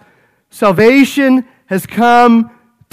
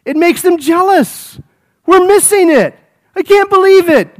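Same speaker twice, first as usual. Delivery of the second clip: jealous disbelief; 5 semitones higher than usual. Retold or imitated. Jealous Jews hearing of the Gentiles, incredulous and higher. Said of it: "The Jews are looking at that and saying".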